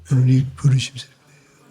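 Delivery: grudging, half-mumbled mock recital; mock grudging husband reciting it under duress; forced reluctant recital. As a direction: recite it as if made to, no heart in it. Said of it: "억지로, 억지로".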